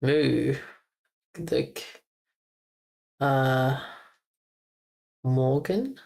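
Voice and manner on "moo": "moo" as a long cow-like vowel; cow sound. Shown as a demonstration. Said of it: "But, like".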